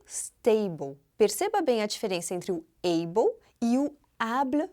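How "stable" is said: stable à inglesa, "stêibol", devagar; English pronunciation. Shown as a demonstration. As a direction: stable com "ei" e final "bol". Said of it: "Em inglês deu". (pronúncia inglesa de stable)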